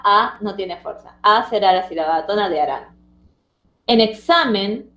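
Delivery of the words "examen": "examen" slowed, with SA carrying the force; stress on middle syllable. Shown as a demonstration. Teacher pointing out the tonic syllable, "examen" slowly stressed on SA. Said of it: "sa era la sílaba tónica".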